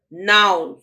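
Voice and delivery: put-on loud stubborn child; bratty now. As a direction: bark it like a spoilt kid. Bratty girl insists.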